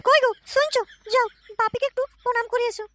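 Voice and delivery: high, put-on young woman's voice; a daughter happily greeting her visiting father; daughter's voice. Daughter welcomes her father at the door in a high voice.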